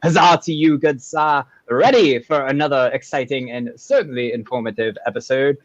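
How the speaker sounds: amateur English accent; reply in put-on English; a modest attempt at an English accent. Shown as a demonstration. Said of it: "Let me know how my English accent".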